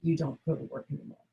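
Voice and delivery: soft, quiet, gentle reply; hushed, caring tone; gentle and calm. Shown as a demonstration. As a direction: say it gently and calmly. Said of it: "say to him gently, calmly".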